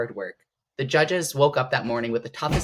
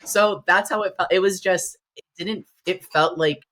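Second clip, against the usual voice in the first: higher, louder, voice swelling with tears; emotional, near tears; 5 semitones higher, 6 dB louder than usual. Real, not acted. Recalling crying on the Olympia stage, higher and louder, tearful. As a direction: let the tears rise as you remember. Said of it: "so I just started crying".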